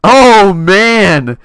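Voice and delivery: loud, high frustrated oh man; loud dismayed outburst; exclaim. Real, not acted. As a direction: cry out in dismay. Getting knocked back.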